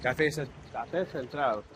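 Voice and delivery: Cafe Central said slowly the Spanish way, Puerto Rican accent. Real, not acted. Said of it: "the accent".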